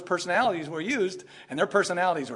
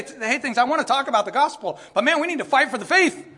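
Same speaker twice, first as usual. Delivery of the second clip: mock zealous believer; 8 semitones higher, 6 dB louder than usual. Mocking zealous young believers.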